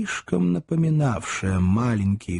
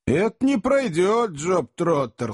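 stern challenge; 8 semitones higher, slower than usual. A narrator's reading. Sam confronts the impostor.

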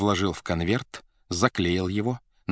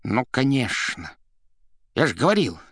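higher, worked-up vindication; excited; 4 semitones higher, 3 dB louder than usual. A narrator's reading. Administrator insisting he had said so, excited. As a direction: say it as if proved right, stirred up. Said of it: "возбуждённо кричал администратор".

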